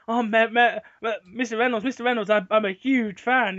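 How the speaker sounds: light impression of a giddy fan meeting his idol; mock fangirling. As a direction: player character gushing at the mayor, mock fangirl squeal. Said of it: "and then he fangirls".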